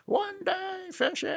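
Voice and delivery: very high cartoon squeak with an odd voice; squeaky gnome. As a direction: squeal the promise like a tiny toy gnome. Gnome vows to catch fish.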